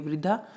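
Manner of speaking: वृद्धा with a clear ri after the v; ri sound clearly. Shown as a demonstration. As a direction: say वृद्धा as vri-ddha. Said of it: "वह के नीचे री की मात्रा होती है".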